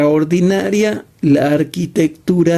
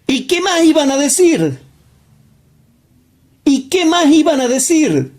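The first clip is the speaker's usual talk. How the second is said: raised pitch; 9 semitones higher than usual. Acted. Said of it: "preacher's rhetorical question raised".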